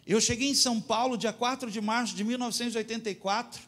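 high, driving preacher's telling; fervent sermon. Real, not acted. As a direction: testify with fire. Pregação em voz alta. (testemunho fervoroso)

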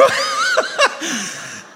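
high squealing laugh. Real, not acted. Laughter between quotes.

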